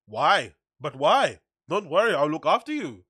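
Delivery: put-on botched German accent that drifts towards Indian; mock German accent, lilting and off-target; German accent attempt sounding Indian. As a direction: try a German accent and slide into Indian lilt. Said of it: "that sounds kinda Indian".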